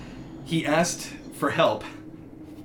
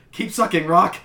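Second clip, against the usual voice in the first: mock roar; 3 semitones higher, 5 dB louder than usual. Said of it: "Pat roared".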